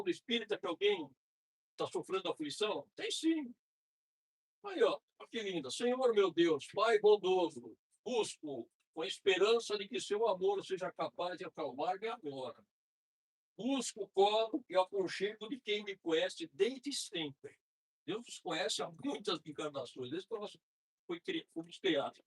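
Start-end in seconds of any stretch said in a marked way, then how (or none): 5.7-17.6 slow, measured devotional reading; prayer reading. Acted. Praying to God to calm affliction, slow prayer reading. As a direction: read it as an earnest, drawn-out prayer.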